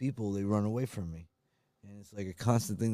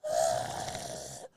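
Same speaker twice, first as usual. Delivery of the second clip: shaky sigh; 8 semitones lower, 3 dB quieter than usual. Acted. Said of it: "my crying reel".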